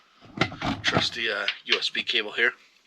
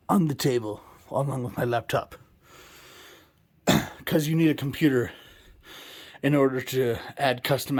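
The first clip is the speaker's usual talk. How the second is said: slightly winded after climbing stairs; out of breath. Real, not acted. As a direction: talk while catching your breath. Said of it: "sorry, I'm out of breath".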